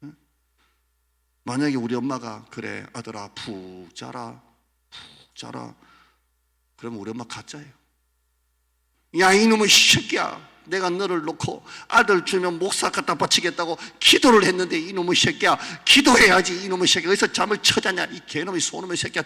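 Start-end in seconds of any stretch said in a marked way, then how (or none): 2.5-5.8 soft, slow mother voice; gentle mother. Retold or imitated. Mother letting her son sleep in. 9.2-19.2 much higher, loud scolding; angry mother yelling. Retold or imitated. Mother berating her son to go pray.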